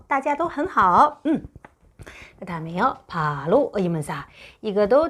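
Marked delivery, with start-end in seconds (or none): 0.1-1.2 大家都很好 said very slowly; teacher reading 大家都很好 slowly; slow model reading. Shown as a demonstration. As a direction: drill 大家都很好 one syllable at a time. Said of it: "여러분도 很好".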